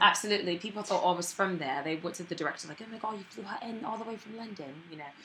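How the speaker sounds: put-on practised British accent, easy and chatty. Actress recalling being taken for a Londoner, British accent. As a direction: keep up a natural British accent.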